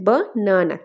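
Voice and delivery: ব-না-না broken into its syllables. Shown as a demonstration. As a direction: sound out ব-না-না in three beats. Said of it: "syllable division করলে কয়টা আসে".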